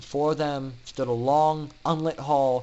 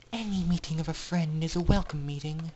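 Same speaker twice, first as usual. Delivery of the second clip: soft, sincere reassurance; gently; 4 dB quieter than usual. Acted. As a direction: say it kindly and sincerely. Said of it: "Aurora spoke gently".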